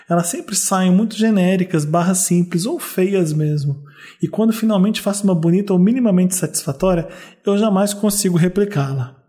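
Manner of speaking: carioca accent, reading a letter aloud; Rio accent. Shown as a demonstration. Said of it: "Eu vou ler com sotaque carioca".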